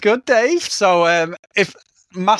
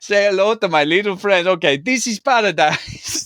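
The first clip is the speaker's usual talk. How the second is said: higher-pitched, badly faked Tony Montana accent; 5 semitones higher than usual. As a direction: make a shaky attempt at Tony Montana's accent. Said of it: "gonna do a Tony Montana accent".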